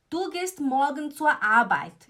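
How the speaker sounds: slow, with "du" hit first and loud; teacher's slow demo, "du" punched up front; stress on du. Shown as a demonstration. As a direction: lean on "du" to show the pronome leads, slowly. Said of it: "Eu comecei com o quê?".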